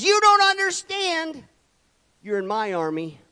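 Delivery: God's voice. Retold or imitated. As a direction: stretch it out like a divine verdict. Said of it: "God says".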